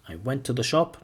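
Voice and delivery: "I went to the shop" as one linked chunk; first word group, held open after "shop"; chunked phrasing. Shown as a demonstration. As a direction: run "I went to the shop" together, then break. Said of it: "chunk one".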